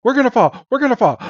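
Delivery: high, frantic warning; high panicked repeat; panicked cry. Acted. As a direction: cry out as the branch gives way. Team Rocket about to fall.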